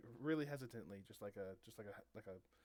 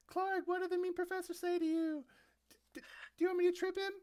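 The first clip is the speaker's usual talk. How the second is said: very high, loud cartoonish squeal; gaggle of hangers-on; 11 dB louder, faster than usual. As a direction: squeak it out high and loud, fussing over a friend. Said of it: "that gaggle of people come by and say".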